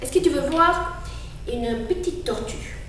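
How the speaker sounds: put-on old turtle voice. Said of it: "Elle est un petit peu vieille".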